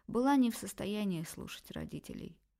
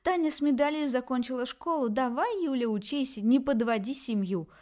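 higher, louder sneering mimicry; shrill mocking; 4 semitones higher, 5 dB louder than usual. Daughter mocks her parents' lectures, shrill and fed up. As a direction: spit out their lectures with scorn. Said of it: "визгливо выкрикивать свои претензии".

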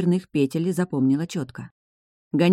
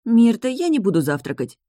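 sleepy mumble; 6 semitones higher, 4 dB louder than usual. A narrator's reading. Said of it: "сонно пробормотала Эль".

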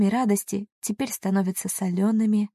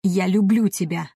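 sudden louder outburst; he explodes, a touch louder; 4 dB louder than usual. A narrator's reading. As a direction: burst out with it. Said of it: "Вдруг взрывается он".

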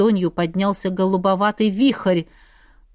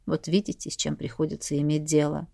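softer, lower weary sigh; husband sighing as if burdened; heavy sigh; 6 semitones lower, 7 dB quieter than usual. A narrator's reading. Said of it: "тяжело вздохнул муж".

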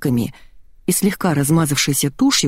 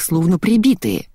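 ordinary delivery, nothing marked

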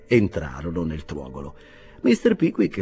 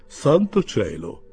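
dismayed exclamation; 4 semitones higher, 3 dB louder, slower than usual. A narrator's reading. Pickwick's sudden alarm in story.

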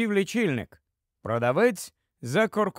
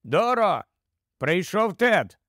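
mildly raised voice to another room; slightly louder; 2 semitones higher, slower than usual. Acted. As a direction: call out to the wife a little louder. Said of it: "а тоді голосніше". (трохи голосніше, гукаючи)

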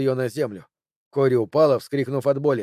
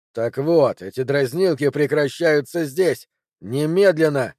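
furious ultimatum. Acted. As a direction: slam the final word down.

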